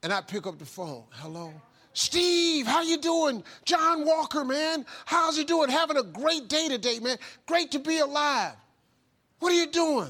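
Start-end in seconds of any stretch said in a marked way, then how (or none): 1.1-1.5 low, soft, barely awake hello; sleepy hello. Retold or imitated. Steve answering John's dawn call, half asleep. 1.9-10.1 much higher, louder, bursting with energy; over-the-top cheerful. Retold or imitated. John waking Steve with a call, booming and cheerful. Impersonating energetic morning caller.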